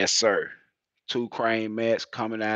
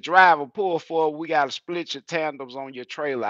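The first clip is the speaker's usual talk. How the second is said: loud, high call over the intercom; intercom announcement; 7 semitones higher, 7 dB louder than usual. Retold or imitated. Scale officer calls driver over intercom, loud and high. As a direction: boom it out like a scale house speaker. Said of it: "them folk got on the intercom and said".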